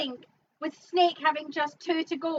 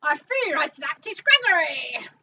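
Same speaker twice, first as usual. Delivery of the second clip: put-on Cockney accent; 2 semitones higher, 5 dB louder than usual. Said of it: "do it in your Cockney accent".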